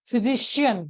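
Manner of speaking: फिजिशियन with the weight on शि; stress on second-last syllable. Shown as a demonstration. Teacher demonstrating a stress rule, फिजिशियन stressed on शि. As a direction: lean on शि in फिजिशियन. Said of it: "यहाँ पे शी को यहाँ पे दिया गया है".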